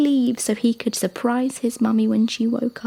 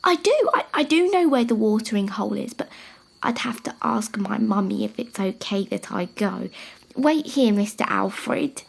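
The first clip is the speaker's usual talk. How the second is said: eager little giraffe. Acted. Eddie eager.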